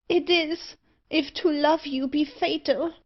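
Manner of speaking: put-on high-pitched, heartfelt girl's voice in a reading; anguished confession. A narrator's reading. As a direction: confess love in distress, pitched well up. Anguished girl confesses fatal love.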